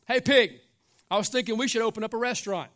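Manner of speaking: lightly voiced eager chicken pitching an idea; chicken calling out. Chicken calls to pig in joke.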